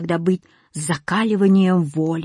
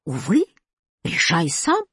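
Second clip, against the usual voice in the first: tearful; 2 semitones lower than usual. A narrator's reading. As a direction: say it as if starting to cry. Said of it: "заплакал восклицательный". (плаксиво)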